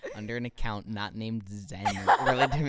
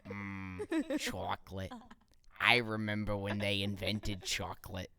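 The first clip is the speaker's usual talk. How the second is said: put-on old chocolate lady; much slower than usual. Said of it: "the chocolate lady".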